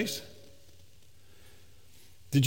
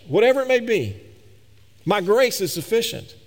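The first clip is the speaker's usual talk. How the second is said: fervent preaching; 4 semitones higher than usual. Acted. Pastor voices God reassuring the suffering believer, fervently. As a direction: proclaim it as God's own promise. Preacher voicing God's promise.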